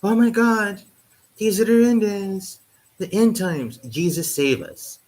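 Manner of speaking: high, slowing mock doomsday wail; hammed-up churchgoing grandma panic; mock panicked elders. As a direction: plead to Jesus like a horrified old relative. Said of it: "old people in my family would also go".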